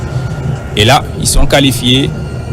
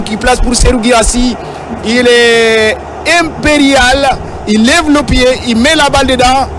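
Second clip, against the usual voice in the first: high, lively replay analysis; excited sports commentary; 5 semitones higher than usual. Real, not acted. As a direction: still buzzing after the goal. (analyse du ralenti, voix haute et enjouée)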